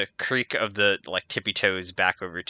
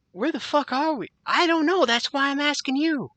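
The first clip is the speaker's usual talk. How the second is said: high, louder, irritated guard voice; exasperated guard; 5 dB louder than usual. Acted. Guard snapping at his partner, high and annoyed. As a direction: snap back, baffled and annoyed. Two confused guards bicker.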